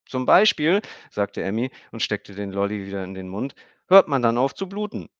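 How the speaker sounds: put-on high, loud girl's voice; a child stating a fact; little girl. A narrator's reading. Emmy notices Stefan bleeding, high girl's voice.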